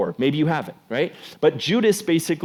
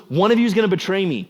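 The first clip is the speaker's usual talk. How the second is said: louder, quicker, higher accusation; dramatic announcement; 5 semitones higher, 4 dB louder, faster than usual. Retold or imitated. Jesus telling the twelve at dinner, dramatic louder warning. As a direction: drop the bombshell at the dinner table. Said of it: "and one of them goes".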